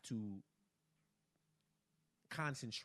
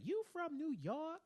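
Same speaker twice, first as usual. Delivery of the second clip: New York bartender. Retold or imitated. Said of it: "she was like".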